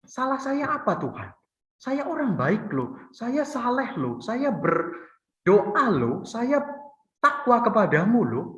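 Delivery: aggrieved protest drawn out to God; Job protesting to God. Retold or imitated. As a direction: drag out each "loh" like a wronged man pleading his case. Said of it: "Ayub mulai protes kepada Allah".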